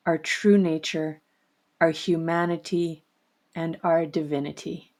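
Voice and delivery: steady, earnest book reading. Acted. Host reads Mary Jo's book passage to the audience, earnest.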